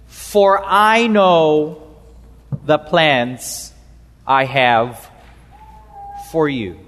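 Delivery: slow reading, falling low with pauses; measured scripture reading. A narrator's reading. Preacher first reads the verse to the congregation, measured.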